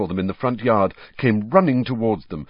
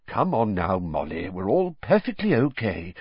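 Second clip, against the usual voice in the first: soothing. Acted. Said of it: "said Mister Weasley soothingly".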